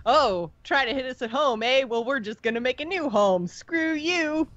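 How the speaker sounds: lightly voiced snarky defiance; mock defiant taunt. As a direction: taunt them like a smug rival. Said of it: "Kind of a".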